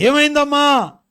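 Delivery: high, loud acted demand; alarmed questioning. Pastor asking the crying caller what happened, loud alarmed questioning. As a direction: call out the question in mock alarm.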